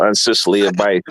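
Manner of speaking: garbled alien-sounding voice; words come out like an alien. Real, not acted. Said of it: "you got, like, an alien voice when you tried to say it".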